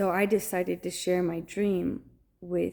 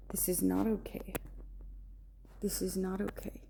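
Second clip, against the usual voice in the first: quiet pleading; 9 dB quieter, faster than usual. Retold or imitated. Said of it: "I was telling him".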